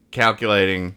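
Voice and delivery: lightly voiced GPS announcement. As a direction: read it like a plug-in GPS. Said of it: "is saying".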